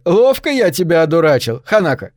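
crowing like a madman; wild unhinged ranting. Acted. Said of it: "И он снова истерически рассмеялся". (истерично-безумное злорадство)

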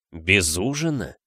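slow, low sceptical question; торжествующий Снейп. Acted. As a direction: ask slowly and low, doubting the excuse. (медленно, низко, с недоверием)

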